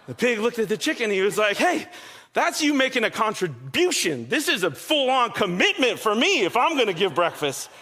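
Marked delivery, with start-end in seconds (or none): 1.6-7.7 indignant protest. Acted. Pig objecting to the chicken's breakfast idea, mock indignant. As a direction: protest as if wronged, lightly hammed-up.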